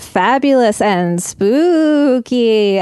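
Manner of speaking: slow, spooky ghost host voice; haunt them with a ghostly hello; scary ghost voice. Acted. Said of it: "your scary ghost voice".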